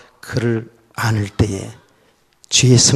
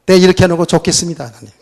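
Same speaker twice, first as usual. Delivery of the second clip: sarcastic reply; 2 semitones higher, 3 dB louder, faster than usual. Retold or imitated. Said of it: "나 진짜 그랬다니까요".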